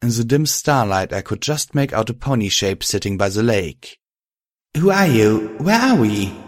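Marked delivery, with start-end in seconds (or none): 4.8-6.3 confused asking. A narrator's reading. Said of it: "I asked".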